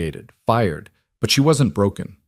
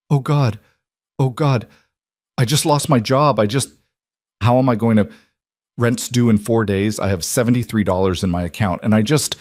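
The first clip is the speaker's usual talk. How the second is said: near tears, words tumbling out; distraught; 2 semitones higher, 3 dB louder than usual. Acted. Lena breaking down in panic.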